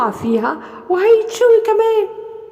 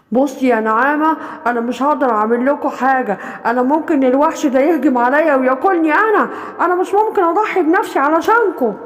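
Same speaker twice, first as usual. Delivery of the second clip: wolf. Acted. The wolf refuses.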